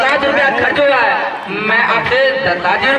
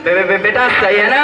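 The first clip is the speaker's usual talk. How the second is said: stutter; 4 semitones lower than usual. Acted. Stammering father in comic skit.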